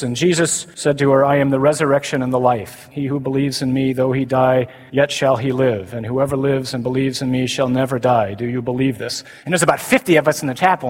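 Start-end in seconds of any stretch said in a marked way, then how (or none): 0.0-9.2 flat, droning seminarian reading; lifeless gospel reading. Retold or imitated. Seminarian reading John to classmates, flat drone. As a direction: read it like it means nothing. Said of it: "he's reading the gospel".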